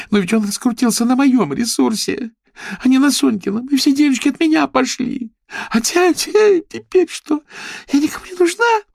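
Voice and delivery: high, loud sobbing complaint; tearful wailing. Acted. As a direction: whine through tears. Paulina crying aloud.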